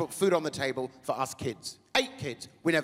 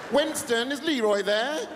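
higher, louder shout across the room; calling out; 6 semitones higher, 3 dB louder, slower than usual. Retold or imitated. Comic pretending to call his friends over, shouting. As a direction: call to your mates. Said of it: "calling out to friends".

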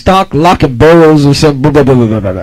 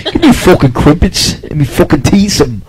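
mock British accent. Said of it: "if they talk in a British accent".

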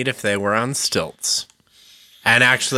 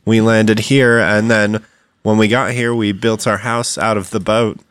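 put-on southern accent; 3 semitones lower than usual. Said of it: "Leprechauns with a southern accent".

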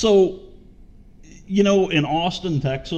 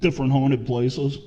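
with hiccups. Real, not acted. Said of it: "Excuse me, I got the hiccups".

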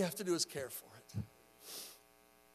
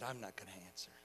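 put-on low, very soft voice of a hiding girl; hushed refusal; 11 semitones lower, 13 dB quieter, faster than usual. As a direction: say it under your breath, acting it out.

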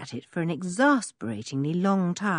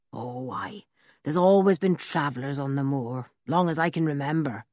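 put-on rough old blacksmith; 2 semitones lower than usual. Blacksmith Ben's voice.

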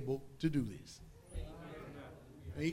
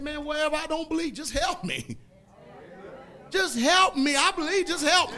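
higher, louder desperate plea; the father begging Jesus to help his unbelief; pleading cry; 8 semitones higher, 6 dB louder than usual. Retold or imitated. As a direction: beg for help with everything. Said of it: "He said".

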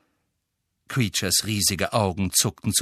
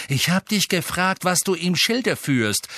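higher, firm cool insistence; 10 semitones higher, 3 dB louder than usual. A narrator's reading. Master demanding the elf's intent, cool. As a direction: repeat the question with cool authority. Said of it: "sagte Sirius kühl".

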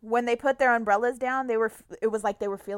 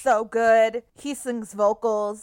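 gushing; 6 dB louder, slower than usual. Real, not acted. Gushing about album.

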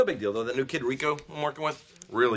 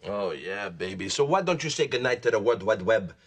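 seductive Rico voice; 4 semitones lower than usual. Pretend. Husband seducing wife in low Rico voice. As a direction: lure her in Rico's voice.

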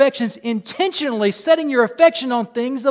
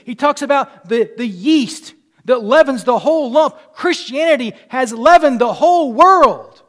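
loud, rising sermon voice; a fervent preacher lifting the congregation; full-force preaching; 4 semitones higher, 8 dB louder than usual. Acted. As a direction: preach it out to the whole room.

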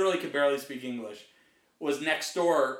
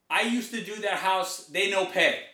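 put-on gardener's broken-English Asian accent, pitched up; imitated Asian accent; 3 semitones higher, 4 dB louder than usual. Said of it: "this is his accent".

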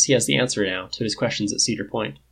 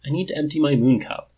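lightly voiced disapproving woman; a touch of reproach; 4 semitones higher than usual. A narrator's reading. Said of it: "she says disapproving".

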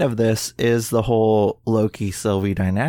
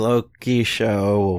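slow, drawn-out mock disinterest; mock unimpressed; much slower than usual. Rolling their eyes at Marvel show announcements, mock unimpressed. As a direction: drag out the show title as if unimpressed. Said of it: "we all kinda rolled our eyes at".

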